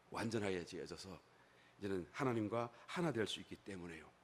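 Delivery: 낮고 차분하게 타이르듯; 주님의 간곡한 초청. Acted. 주님이 여인을 초청하는 말씀. (낮고 잔잔한 권면의 목소리)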